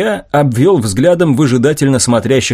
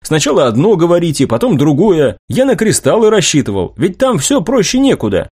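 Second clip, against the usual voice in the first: higher, aggrieved complaint; indignant; 6 semitones higher than usual. Acted. Inventor complaining to mentors about changed demands, indignant. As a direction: protest as if unfairly treated. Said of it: "возмутился я".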